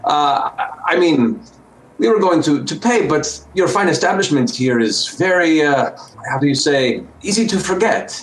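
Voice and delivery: a lightly voiced dwarf making a pitch; dwarf flattering the tailor for a discount; persuasive dwarf. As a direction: coax the tailor into a deal.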